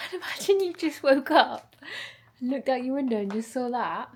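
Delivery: loud, giggling self-mockery; laughing at herself. Real, not acted. Laughing to viewers about her window stunt. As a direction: crack up at your own weirdness. Laughing at own weird reenactment.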